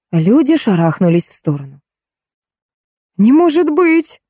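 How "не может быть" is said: high, slow, hysterical squeal; hysterical shriek. A narrator's reading. A woman in the crowd squealing in hysterical disbelief. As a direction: shriek it in disbelief, much higher. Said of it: "истерически взвизгнула".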